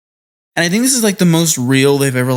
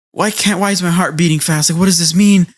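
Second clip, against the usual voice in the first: higher-pitched imitation of a panicky inner monologue; lightly acted fluster, raised pitch; mock flustered; 5 semitones higher than usual. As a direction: play someone baffled by their own feelings. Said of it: "he gets all flustered".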